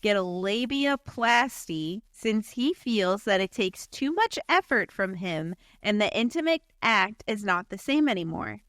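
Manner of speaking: narrator voice. Shown as a demonstration. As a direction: read it like a documentary narrator. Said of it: "are you ready for my narrator voice".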